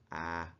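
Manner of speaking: "ah" voiced as the bare sound of short A; isolated, open "ah" for a short vowel. Shown as a demonstration. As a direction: give the sound "ah", not the letter name. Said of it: "So say the sound".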